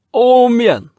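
very high, loud sea shout; heave call. Acted. Red Nelson shouting the crew to heave again. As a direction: roar the heave.

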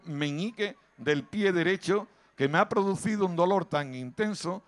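exagerado fino madrileño, despacio; Madrid posh speech. Retold or imitated. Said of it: "si se lo pegan en Madrid, dicen". (imitando a un madrileño fino, despacio)

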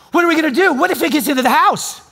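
high, loud imitation of a panicking wife; hammed-up frantic alarm; freaking out. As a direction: wail it in mock terror. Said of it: "freaking out".

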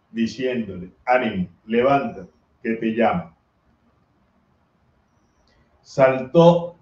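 measured, solemn reading of scripture; gospel reading. Acted. Priest reading the gospel to the congregation, solemn. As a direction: read the gospel aloud at Mass.

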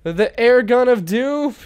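slow, drawn-out epic move name; hammed-up doom voice; dramatic announcement. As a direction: announce it like a villain. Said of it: "dramatic attack name".

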